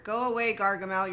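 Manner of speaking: teasing loud shoo at a pest; shooing away. Acted. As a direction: shoo off "Gargamel" with a loud playful call. Shooing off boring people.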